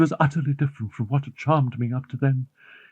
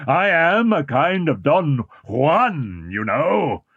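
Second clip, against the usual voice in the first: slow, dark-voiced phantom mocking his own ugliness; cursed phantom crying out; slower than usual. A narrator's reading. Eric taunting Christine with his ugliness, slow and menacing. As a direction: Eric taunts the terrified girl, dragging each word. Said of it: "he cried".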